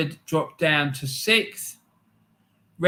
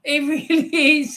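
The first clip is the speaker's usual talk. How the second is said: high, loud, worked-up rant; exasperated fan ranting, higher and louder; heated rant; 7 semitones higher, 4 dB louder than usual. Real, not acted. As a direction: really let rip about the player. Ranting about a player he dislikes.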